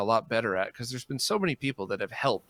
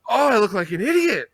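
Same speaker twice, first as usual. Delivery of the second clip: loud, higher groan of self-embarrassment; re-enacted cringing; 8 semitones higher, 7 dB louder than usual. Performer reacting to footage of himself, cringing loudly. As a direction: wail it in comic self-reproach.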